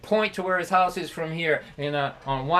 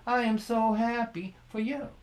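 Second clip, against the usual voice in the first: sarcastic; 4 semitones higher, 4 dB quieter than usual. Retold or imitated. Dad's bitter sarcastic punchline.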